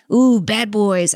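slow teasing ooh, bad boys; slow playful tease. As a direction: draw it out, mock naughty.

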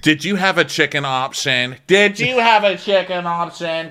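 imitating a guest fretting over the menu; mock worried guest. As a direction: ask anxiously. Imitating Jamel, repeated.

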